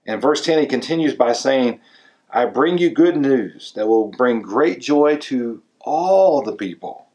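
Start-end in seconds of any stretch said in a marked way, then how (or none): 2.3-7.1 all stretched and leaned on, slow; slow read landing hard on all; stress on all. Shown as a demonstration. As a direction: lean into all, slowly. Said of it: "the emphasis is on the word all there".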